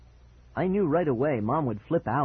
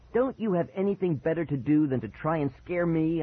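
mild yell, pitched higher; angry yell; 4 semitones higher than usual. Acted. Child scolds prankster brother, mildly yelling. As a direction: raise the pitch in irritation. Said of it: "I yelled".

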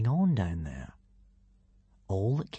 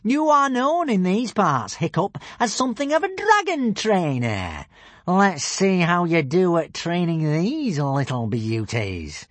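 gloating shout; 7 semitones higher, 4 dB louder than usual. A narrator's reading. Alvin taunts Hiccup from the balcony, shouting slowly. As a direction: draw it out with relish. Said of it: "Alvin shouted down".

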